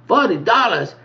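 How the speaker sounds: high, disbelieving question; incredulous echo. Retold or imitated. Echoes the price in disbelief.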